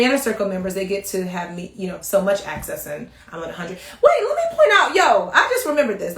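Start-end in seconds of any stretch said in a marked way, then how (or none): 4.0-6.2 high, laughing wait; high-pitched laughing interruption; sudden excited realization. Real, not acted. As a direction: burst in as if it just came back to you.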